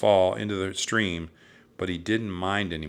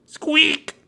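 very high, loud squeal; piercing mousy peep; mouse squeak; 11 dB louder than usual. A narrator's reading. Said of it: "Jack heard it".

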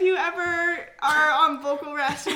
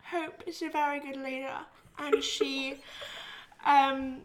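put-on light British accent, pulling a face; a mild British accent put on for fun; 6 dB quieter than usual. Asked for a British accent, describing Hope. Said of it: "to deliver this accent".

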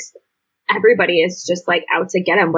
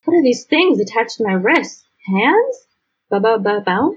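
mock clueless kid; 3 semitones higher than usual. Mocking clueless kid at basketball.

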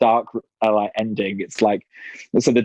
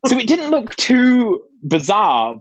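amused, laughing; 11 semitones higher than usual. Real, not acted. Laughing over her costume mishap.

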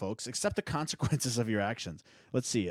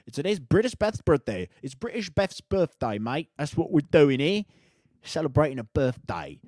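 excited birthday announcement; 6 semitones higher, 11 dB louder than usual. Real, not acted.

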